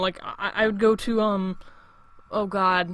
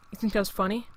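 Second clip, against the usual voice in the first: softer, quiet warning before the blow-up; cold question; 5 dB quieter, faster than usual. Retold or imitated. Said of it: "I had to yell at that kid".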